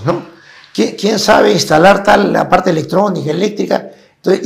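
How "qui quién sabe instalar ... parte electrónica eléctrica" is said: mock boss asking. Foreign company asks for skills.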